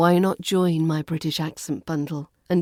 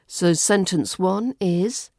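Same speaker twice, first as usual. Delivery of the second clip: ordinary talk, nothing marked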